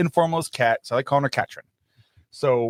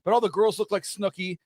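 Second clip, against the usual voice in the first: put-on high, lilting Irish-accented gossip; Irish guy; 7 semitones higher than usual. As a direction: gush about Ireland like a local charmer. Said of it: "now they start".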